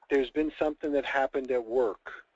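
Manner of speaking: slow, weighty, ominous delivery; a little dramatic. Shown as a demonstration. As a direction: drag it out like grave news. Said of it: "I'm gonna go a little drama here".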